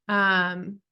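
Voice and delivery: ordinary talk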